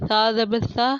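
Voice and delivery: lisped th sound in سا; distinct letter articulation. Shown as a demonstration. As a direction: say سا with tongue between the teeth, as th. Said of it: "میں پڑھ کے بتاتی ہوں کیسے".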